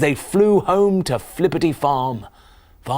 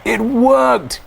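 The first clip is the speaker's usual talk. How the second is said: giggling; 12 semitones higher, 6 dB louder than usual. Acted. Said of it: "giggled the animals".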